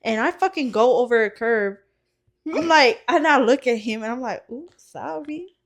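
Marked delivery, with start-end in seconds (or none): 4.5-5.6 high, drawn-out mock apology; lilting, oops-my-bad apology; sheepish apology. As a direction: squeak out a sheepish sorry. Apologising after driving over the curb.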